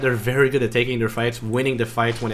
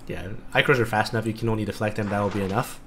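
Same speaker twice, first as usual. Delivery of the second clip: eating while talking; chewing nuts between words; crunching nuts; 3 semitones lower, 6 dB quieter than usual. Real, not acted. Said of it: "Sorry for my crunching if you hear it".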